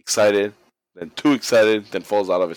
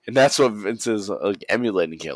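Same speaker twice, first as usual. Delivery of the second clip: ordinary talk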